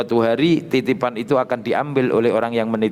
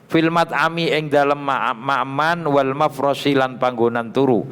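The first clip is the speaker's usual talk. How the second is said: raised, chanting read of Arabic text with Javanese gloss; kitab recitation; 3 semitones higher than usual. Acted. Teacher reading the kitab aloud to students, raised chant-like recitation. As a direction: intone each phrase then gloss it.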